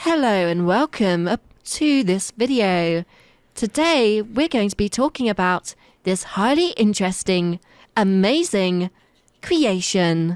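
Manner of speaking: slow, robotic AI-like narration voice. Explaining why they sound like an AI, showing their video narration: AI-like narration voice. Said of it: "just my narration voice".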